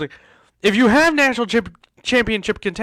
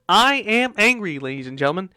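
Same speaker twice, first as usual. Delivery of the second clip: angry declaration. Real, not acted. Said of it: "I am so angry".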